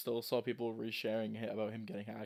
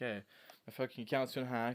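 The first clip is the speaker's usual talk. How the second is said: mock fuming, pissed-off, angry tone. Retelling someone complaining that his account was hacked: imitating someone pissed off. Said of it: "he's getting all pissed".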